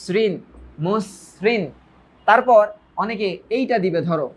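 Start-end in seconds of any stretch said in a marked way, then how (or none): 0.0-1.6 সৃণ as "srin", then মসৃণ as "mos-srin"; syllable-by-syllable pronunciation. Shown as a demonstration. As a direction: sound out মসৃণ with s in both halves. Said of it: "এস এর মতো উচ্চারণ, তারপর".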